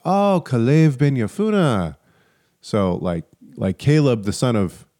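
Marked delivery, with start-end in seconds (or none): 0.0-2.0 imitated "oh, I get it" realization; slightly raised, drawn-out dawning understanding; sudden recognition. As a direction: act out the penny dropping. Acting out recognition of the name.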